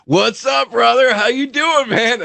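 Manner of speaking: high, lit-up hello to a buddy; delighted greeting. Retold or imitated. Vince greets the sheepish guest upstairs, high and delighted. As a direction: greet a pal like you're thrilled he walked in. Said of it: "his face lit up".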